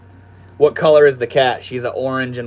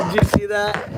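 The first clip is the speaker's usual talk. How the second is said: delighted squeal; 7 semitones higher than usual. Real, not acted. Cat zoomies, delighted squeal.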